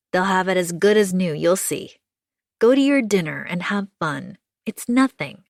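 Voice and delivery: kind neighbour, upbeat comfort; reassuring June. Acted. June sends Anna to dinner.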